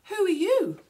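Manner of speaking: high, loud call from up in the sky; loud cry. A narrator's reading. Kookaburra to Wombat from high in the sky, crying out. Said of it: "cried Kookaburra from high in the sky".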